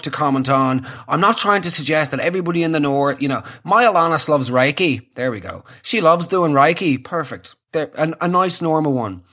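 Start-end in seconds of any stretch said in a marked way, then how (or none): 3.6-5.1 lightly voiced Northern Irish dad; understated Northern Irish accent; stoic Northern Irishman. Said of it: "stoic Northern Irish man". 5.8-7.0 lightly voiced Northern Irish dad; understated Northern Irish accent; stoic Northern Irishman. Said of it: "stoic Northern Irish man".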